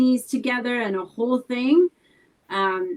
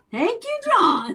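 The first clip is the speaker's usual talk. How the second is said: laughing; 13 semitones higher, 3 dB louder than usual. Real, not acted. Laughing while thanking her husband.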